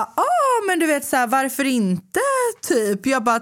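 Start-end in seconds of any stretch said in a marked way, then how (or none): 0.0-2.2 high-pitched, over-polite self-mimicry; mock-friendly acceptance, starting very high; polite agreeableness. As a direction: go up high to sound obliging. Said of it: "jag vill inte vara otrevlig".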